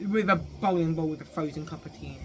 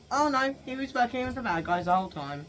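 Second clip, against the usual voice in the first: mock dismay; 7 semitones higher than usual. Acts shock at story twist.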